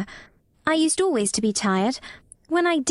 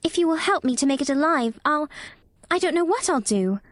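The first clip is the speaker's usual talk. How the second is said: put-on high girl's voice, lost for words; helpless; 8 semitones higher than usual. A narrator's reading. Mary cannot think how to thank Dickon, helpless girlish voice. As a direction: break off, then finish at a loss. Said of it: "she ended helplessly".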